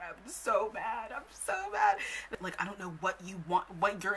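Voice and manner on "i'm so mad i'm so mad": drawn out, climbing to a high shout; mock angry outburst. Mocking her own anger at the drama, shouting. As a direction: build to a hammed-up yell.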